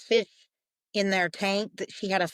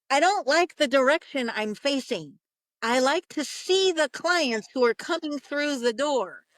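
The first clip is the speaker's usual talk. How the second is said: lightly voiced fish, firm and emphatic; complaining fish; 3 semitones higher than usual. Fish complains to the medium about its spot, lightly indignant. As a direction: state it like a mildly put-out fish. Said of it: "it's looking at me and it's like".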